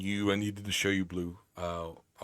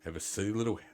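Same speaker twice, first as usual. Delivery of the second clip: measured, lilting letter reading; reading aloud. Acted. Streamer reads Grandma's pleading letter aloud, lilting storytelling tone. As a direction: read it out like a heartfelt in-game letter.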